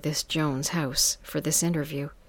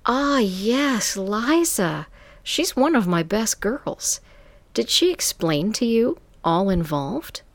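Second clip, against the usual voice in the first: higher, sultry madam voice; 5 semitones higher, 4 dB louder than usual. Acted. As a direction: purr it like a smooth madam. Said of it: "this sultry voice answered".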